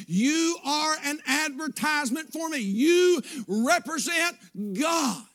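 full-force preaching. Acted. Preacher to his church, preaching at full force. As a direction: preach it out to the congregation.

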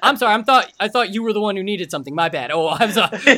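loud, sarcastic fake apology, laughing through; mock apologetic salesman. Salesman mocking his own apologies, sarcastic and loud. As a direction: ham up a grovelling clerk's sorry.

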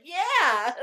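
loud, high whoop of approval; re-enacted burst of glee; triumphant cheer. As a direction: cheer it out big. Retells cheering reaction to scene.

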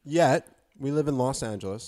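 talking with mouth full; words pushed round a bite of food. Real, not acted. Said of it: "Sorry, I'm talking with my mouth full".

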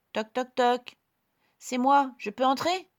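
put-on high, bright little girl. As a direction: play the small girl. Girl knocks and asks.

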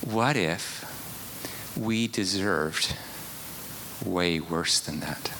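soft, slow, half-whispered list; hushed. Real, not acted. Preacher confronting the congregation, hushed and whispered. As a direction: let it sink in, barely above a whisper.

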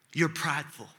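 low, soft, deliberate pronouncement; quiet verdict. Retold or imitated. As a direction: re-enact a counselor quietly delivering hard truth. Counselor's blunt verdict, re-enacted.

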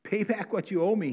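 demanding. Acted. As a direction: bark the debt back at him. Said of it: "he demanded".

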